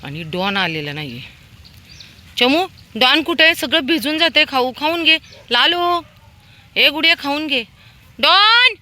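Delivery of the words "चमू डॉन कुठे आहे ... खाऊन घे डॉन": high calls building to a loud holler; calling out to dogs. Real, not acted. Feeder summoning dogs before food gets soaked, calling out. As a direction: pitch it far up to carry, ending in a shouted name.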